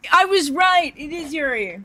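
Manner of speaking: high, loud excited exclamation. Acted. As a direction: burst out with glee. Voices a character's excited line.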